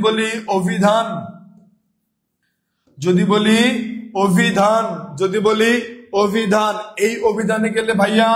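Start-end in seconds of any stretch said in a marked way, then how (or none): 4.2-4.8 অভিধান said as "obhidhan"; closed o. Shown as a demonstration. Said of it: "ও এর মতো উচ্চারণ করছি". 6.2-6.7 অভিধান said as "obhidhan"; closed o. Shown as a demonstration. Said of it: "ও এর মতো উচ্চারণ করছি".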